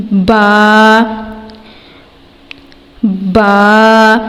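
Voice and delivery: با from the wet inner part of both lips; tajweed letter demo. Shown as a demonstration. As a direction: press both lips together and release با. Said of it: "دونوں ہونٹوں کے تر حصے سے". (با دونوں ہونٹوں کے تر حصے سے)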